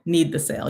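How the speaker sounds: emphatic "need" with a falling finish; stress on need. Shown as a demonstration. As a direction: punch "need" and let "the sale" fall. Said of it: "emphasis on the word need".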